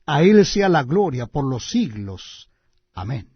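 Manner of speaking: solemn, measured scripture reading; booming biblical narration. Acted. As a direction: read it like a preacher at the pulpit. Reads scripture aloud.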